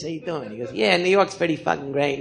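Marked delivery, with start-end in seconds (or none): 0.0-0.5 soft New York guy, lip curled; curled-lip New Yorker. Retold or imitated. New York guy in the movie line, curled-lip voice. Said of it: "he talked like this". 0.7-2.2 lightly imitated New York guy; curled-lip New Yorker. New Yorker chatting in line, curled-lip voice. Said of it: "he talked like this".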